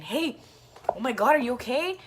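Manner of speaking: quick check-in, lightly acted; Chris. Retelling a friend checking on the fallen rider, mildly concerned. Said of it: "I can hear Chris saying".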